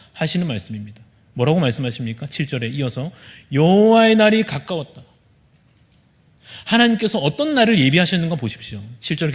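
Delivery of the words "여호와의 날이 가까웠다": loud and high, proclaim it; preacher's solemn loud proclamation; proclaimed warning. Acted. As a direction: announce the coming day with force. Proclaiming scripture aloud.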